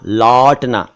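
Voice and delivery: लौटना with an open au vowel; say lautna. Shown as a demonstration. Teacher contrasting the two words, open au in लौटना. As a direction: open the mouth wide on the औ of लौटना. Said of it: "वापस आने को बोलते हैं लौटना".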